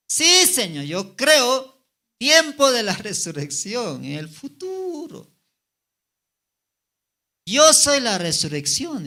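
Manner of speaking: fervent preaching. Acted. Preacher replays Jesus and Marta's dialogue, high and loud. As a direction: proclaim each quote at full force.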